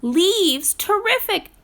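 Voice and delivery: thrilled to keep warm; porcupine. Acted. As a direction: porcupine cheerfully grabs the leaves. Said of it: "said a porcupine".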